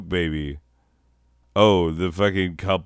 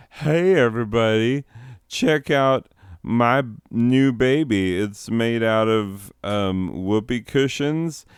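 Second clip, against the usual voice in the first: mock proud parent; 4 semitones higher than usual. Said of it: "where you'd be like".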